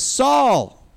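high, loud call across a distance; retold yell. David yells to Saul from the cave, loud retold yell. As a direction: call out the name as if to someone far off. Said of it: "and he yells to him".

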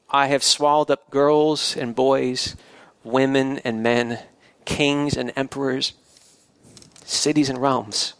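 slow, plain statement with no boast, sorrow or anger; lightly voiced lion just stating it; matter-of-fact lion. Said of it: "It didn't say this as if it were boasting, nor as if it were sorry, nor as if it were angry".

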